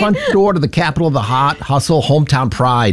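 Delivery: dropped R's in a tentative Boston accent. Shown as a demonstration. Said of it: "How would you say it with a Boston accent".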